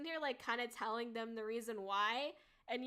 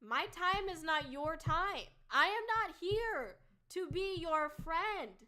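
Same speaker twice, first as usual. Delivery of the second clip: retold heated reply; 2 semitones higher, 4 dB louder than usual. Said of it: "And I'm like".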